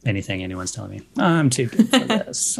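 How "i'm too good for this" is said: snob. Acted. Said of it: "I'm just kind of a snob".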